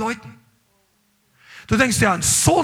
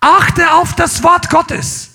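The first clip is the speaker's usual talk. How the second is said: louder, very slow, every word weighted; emphatic command; 5 semitones higher, 6 dB louder, much slower than usual. Real, not acted. Preacher commanding the church to heed God's word, loud and slow. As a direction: drive it home slowly.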